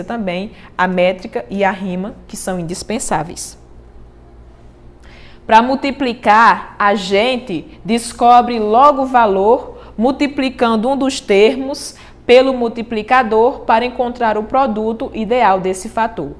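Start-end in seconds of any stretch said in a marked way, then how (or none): 5.5-16.3 steady, rhythmic reading of a cordel stanza; cordel verse recital. Shown as a demonstration. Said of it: "continuei seguindo, né, a deixa nessa outra estrofe". (recitando o cordel com ritmo)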